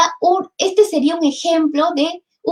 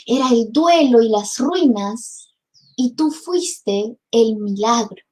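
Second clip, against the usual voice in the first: poem recitation; 3 semitones lower than usual. Acted. Teacher reciting Neruda to students, solemn. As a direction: read it as a lament that turns to wonder.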